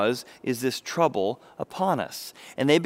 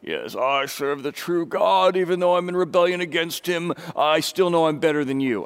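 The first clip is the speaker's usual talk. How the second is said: self-righteous. Retold or imitated. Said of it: "with this self-righteous".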